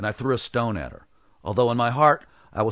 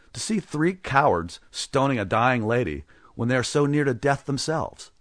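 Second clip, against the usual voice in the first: pleasant; 4 semitones higher than usual. Acted. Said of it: "answered pleasantly".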